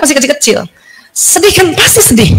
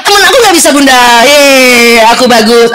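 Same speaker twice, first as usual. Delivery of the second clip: put-on boasting child. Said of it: "Kecuali dia bilang".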